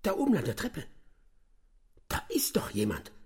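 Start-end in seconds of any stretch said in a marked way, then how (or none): 2.1-3.1 tense whisper; alarmed whisper. Acted. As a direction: hiss it so no one upstairs hears. Sneaking through dark house.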